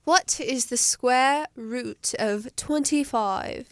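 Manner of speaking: slow, put-on British accent; mock British accent. Host asks a quiz question, mock British accent. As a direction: read it slowly in a pretend British accent. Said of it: "our British accent".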